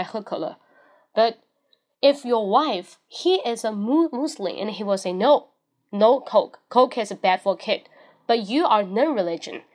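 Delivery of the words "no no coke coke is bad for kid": stern refusal. Retold or imitated. Strict Muslim wife forbidding.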